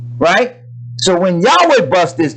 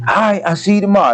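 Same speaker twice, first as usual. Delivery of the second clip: quick cheery goodbye; 3 semitones higher, faster than usual. Retold or imitated. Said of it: "That's what he said".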